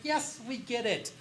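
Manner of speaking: slow, drawn-out, exasperated; mock weary yes. Researchers reply to the bank guy, weary and slow. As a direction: sigh it out, slow.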